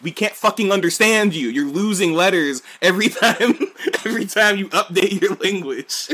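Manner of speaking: high, loud rant breaking into laughter; mock exasperation. People complaining to Brits about dropped letters, mock exasperation.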